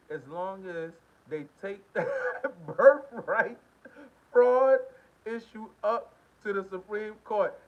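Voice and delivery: reading while cracking up, slow and loud; laughing through it. Real, not acted. Reading the viewer's comment, laughing through the words. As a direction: lose it to laughter mid-sentence, slowly. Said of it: "You know why I'm laughing right now?".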